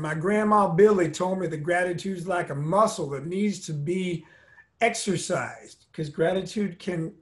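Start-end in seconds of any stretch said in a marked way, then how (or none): 0.0-5.9 lightly imitated Southern accent. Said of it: "he said in his Southern accent".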